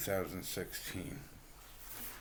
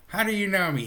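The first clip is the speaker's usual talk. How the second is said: high, louder mock indignation; retold bafflement; 10 semitones higher, 5 dB louder than usual. Heckler to Archie on stage, mock baffled. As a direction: imitate someone baffled at being known. Heckler surprised at being known.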